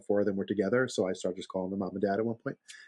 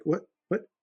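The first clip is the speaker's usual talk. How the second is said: incredulous; 8 semitones higher than usual. Retold or imitated. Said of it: "She's like".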